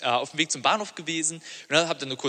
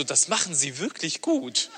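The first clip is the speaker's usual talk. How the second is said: patronizing praise; slower than usual. Retold or imitated. Driver praising condescendingly.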